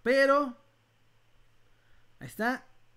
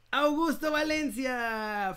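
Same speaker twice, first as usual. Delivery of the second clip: booming prize announcer; 5 semitones higher, much slower than usual. Acted. Anuncia ganador del sorteo.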